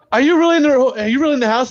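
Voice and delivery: high-pitched disbelieving question; incredulous imitation. Retelling wife on phone asking husband, incredulous.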